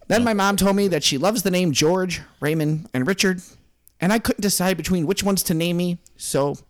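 lightly voiced author telling his tale; a hint of a self-important writer; George. Author explaining his mother's naming choice, lightly put-on character voice. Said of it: "I'm George".

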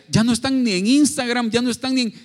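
loud, high, animated quote; excited retelling. Retold or imitated. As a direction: relay the news with lively amazement. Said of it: "Nos decía". (cita animada y en voz alta)

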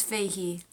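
Feihi as two syllables, "FAY-hee"; corrected pronunciation. Shown as a demonstration. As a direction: end Feihi on a clear "hee". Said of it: "does not rhyme with page".

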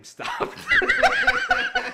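high squealing laugh breaking through; can't hold it in, cracks up; bursting laugh. Real, not acted. Retelling the bathroom story, he bursts out laughing.

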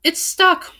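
high-pitched whiny complaint; wailing. A narrator's reading. The magic book complains its pages stick, wailing. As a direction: wail it like a helpless little book. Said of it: "wailed the book".

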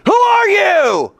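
high, loud, slow drawn-out challenge; booming voice. Acted. Sentry challenges the rabbi from the darkness, booming. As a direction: boom it out slowly from the darkness. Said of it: "Second time".

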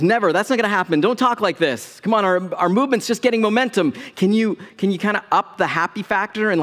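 imitating a disciple talking his teacher round; lightly acted, urgent pleading; mock protest. Acts out Peter scolding Jesus.

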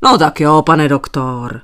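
calm, easygoing agreement; unruffled, placid consent; perfectly calm. A narrator's reading. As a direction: agree without any fuss. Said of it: "přitakal naprosto klidný".

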